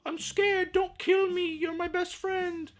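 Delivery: high, whimpering scared voice; mock scared friend. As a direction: beg like a terrified sidekick. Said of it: "and he's like".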